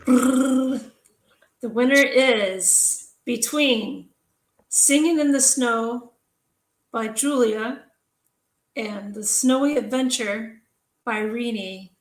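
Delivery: drawn-out announcer's reveal with suspenseful pauses; winner announcement. Acted. Host reveals the pen contest winner to the entrants, drawn-out announcement. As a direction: announce the winner slowly, holding back the name.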